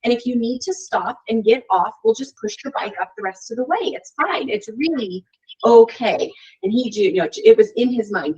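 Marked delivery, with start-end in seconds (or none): 0.0-6.3 gentle coaxing, a bit higher; encouraging mom. Retold or imitated. Mom coaxing her son up the hill, encouraging. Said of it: "I kept telling him".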